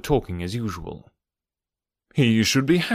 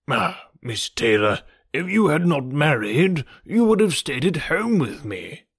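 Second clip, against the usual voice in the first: gentle reproach; 3 semitones higher than usual. A narrator's reading. Mister Woodhouse chiding Miss Taylor for marrying, gently reproachful. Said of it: "with a look of gentle reproach".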